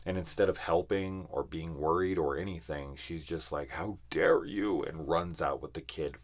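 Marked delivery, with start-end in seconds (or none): 3.7-4.8 slow, louder, higher indignant quote; hammed-up indignation, raised in pitch; mock outrage. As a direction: imitate an offended woman, drawing it out. Imitating woman's outrage in film.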